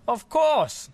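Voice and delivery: loud, high, hearty dragon cry; big friendly dragon, loud and bright; booming dragon. Acted. Dragon answering the boy, loud and hearty.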